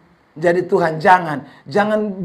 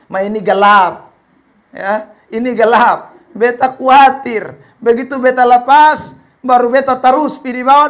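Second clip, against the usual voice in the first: protesting; 4 semitones higher, 7 dB louder than usual. Retold or imitated. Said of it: "kembali lagi protes sama Tuhan".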